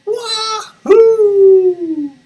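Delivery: very high, very loud joyous yell; gleeful whoop. Acted. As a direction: let the duck whoop with joy. Duck's joyful thought.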